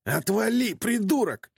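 snarling insult from the ground mid-fight; spat out. A narrator's reading. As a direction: spit the words at him. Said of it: "выплюнул он".

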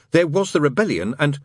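a touch formal, about to explain; stiff. A narrator's reading. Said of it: "said the angel stiffly".

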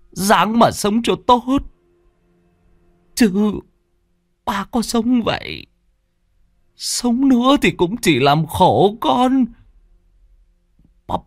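rising, slow, choked pleading; a dying father begging his son to understand; tearful farewell. A narrator's reading. (người cha nghẹn ngào từ biệt con)

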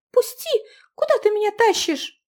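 frightened cry. Acted. Girl resists being dragged.

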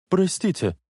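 firm. A narrator's reading. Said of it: "решительно сказала она".

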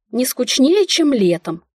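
mildly testy retort, starting high; touch of annoyance, pitch jumping at first; irritated snap. A narrator's reading. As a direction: snap back with growing irritation. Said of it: "всё сильнее раздражаясь, огрызнулась я".

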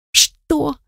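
high furious squeal of disbelief; furious shriek. Acted. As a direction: shriek it in outrage. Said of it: "взвизгнула я яростно".

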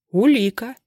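sharp, loud cutting word; sharp as a blade. Acted. Stepan confronting Makhovich with evidence, sharp as a blade. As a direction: cut him with it like a blade. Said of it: "голос Степана стал острым, как лезвие".

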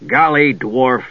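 slow, disgusted pronouncement; understated disgust, slowly spoken; deep disgust. Acted. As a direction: draw it out with distaste. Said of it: "in tones of deep disgust".

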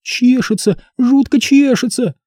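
put-on high, wailing girl's voice. A narrator's reading. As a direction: howl it like it itches unbearably. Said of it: "выла Стефани". (девочка воет)

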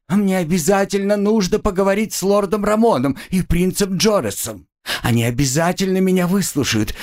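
high, hurried begging; rapid frightened pleading. Acted. Student pleading with her executioners, high and rushed. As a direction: babble out the plea before they stop you. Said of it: "быстро затараторила".

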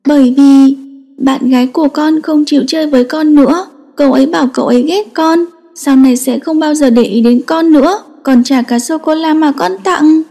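giọng bé trai buồn bã, cao hơn; tearful child. Acted. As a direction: sad little boy complaining. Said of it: "càng nói càng thương tâm".

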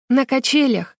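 high, quick blurt. A narrator's reading. Vera blurting an answer while running. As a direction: fire it back. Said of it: "выпалила Вера".

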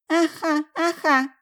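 put-on high whimpering baby cry. A narrator's reading. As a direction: wail like a hungry infant. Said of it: "начал плакать голодный манипулятор".

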